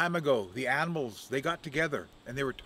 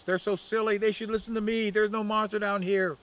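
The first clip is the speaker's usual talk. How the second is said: Crow scoffing; 7 semitones higher than usual. Acted. Crow mocks animals.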